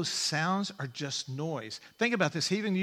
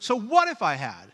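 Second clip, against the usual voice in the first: put-on, raised, sarcastic jab; 4 semitones higher, 7 dB louder than usual. Voicing a verse the way its writer meant it: imitating a sarcastic tone. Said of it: "You can kind of hear that a little bit".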